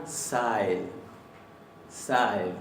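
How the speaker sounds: sæl said slowly and soft; sæl drawn out gently. Shown as a demonstration. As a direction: feminine sæl said softly. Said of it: "Y queda más suave".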